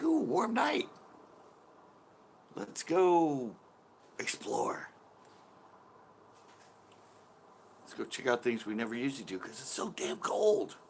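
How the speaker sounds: high squeaky excited bug voice; voicing the bugs, high and giddy. Voicing bugs excited about warm night.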